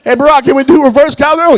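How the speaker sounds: high, loud eager ask; eager request. Retold or imitated. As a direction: call out hopefully to Barack. Asking Obama in bed.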